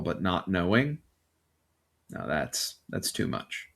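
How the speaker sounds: grave, dramatic scene-setting with long pauses; game master's narration. Acted. Game master tells a player how she is doing upstairs, grave dramatic narration. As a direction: swell on the threat, then sink to a near whisper.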